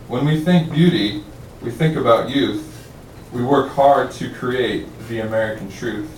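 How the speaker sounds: measured recital in even cadence; clear, projected poetry voice; poem reading. Acted. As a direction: recite each couplet deliberately to the room. Reads poem aloud.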